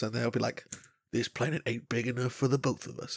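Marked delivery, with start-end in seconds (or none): 1.1-3.2 put-on Southern American accent. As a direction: play a Southern American ready for war. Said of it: "two Southern American accent continents".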